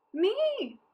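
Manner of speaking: high, loud cry of a hungry crowd; eager crowd shout. A narrator's reading. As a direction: shout it like everyone at once.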